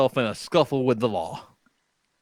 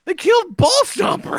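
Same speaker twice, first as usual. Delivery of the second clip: high, slow wail; hammed-up mourning; mock grief; 3 dB louder than usual. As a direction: wail it like a bereaved cowboy. Retold grief to wife.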